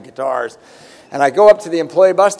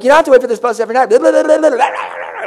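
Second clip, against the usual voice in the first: higher, louder sarcastic replay of "I've read that book"; mocking self-parody; 8 semitones higher, 4 dB louder, faster than usual. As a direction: sneer "I've read that book" back at yourself. Mocking his own pitch to her.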